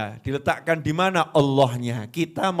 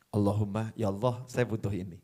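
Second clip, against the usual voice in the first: much softer, lower intimate asking; hushed prayer; 8 semitones lower, 8 dB quieter, faster than usual. Acted. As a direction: pray it almost under breath. (doa berbisik pelan)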